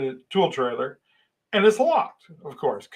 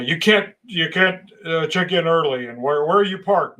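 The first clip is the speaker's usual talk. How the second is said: mock-angry telling-off, raised and insistent; retold angry scolding; 4 dB louder than usual. Foreman ripping into new worker, mildly angry imitation. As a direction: imitate someone ripping into the newcomer. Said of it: "he starts getting mad at me".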